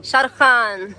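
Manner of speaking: loud call of his name. Real, not acted. Sister calling her younger brother, calling out. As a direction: call out to get his attention.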